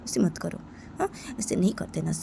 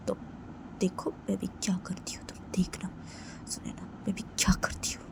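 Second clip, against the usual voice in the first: softer, whispered threat; hushed mischievous warning; scheming whisper; 7 dB quieter than usual. Pretend. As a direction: whisper what you are about to do.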